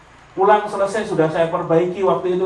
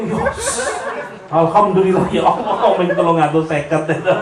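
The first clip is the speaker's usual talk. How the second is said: gleeful yes. Retold or imitated. Cheering to himself at another's loss, laughing. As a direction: cheer it like good news.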